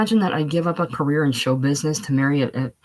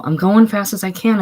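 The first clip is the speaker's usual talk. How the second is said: panting protest, pitched higher and louder; breathless; 5 semitones higher, 6 dB louder than usual. Acted. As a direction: gasp it out, unable to breathe. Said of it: "unable to breathe".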